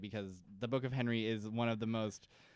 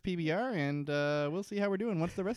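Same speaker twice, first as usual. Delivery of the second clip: higher, chummy hammed-up host; cheesy sign-off voice; 5 semitones higher than usual. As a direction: talk like a sitcom pal promising a beer. Imitating characters signing off.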